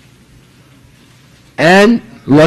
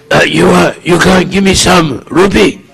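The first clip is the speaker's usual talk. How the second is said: beggar's slurred voice. Retold or imitated. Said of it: "you know, that, that voice".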